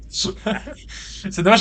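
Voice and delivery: villain laugh. Real, not acted. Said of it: "Le rire du méchant".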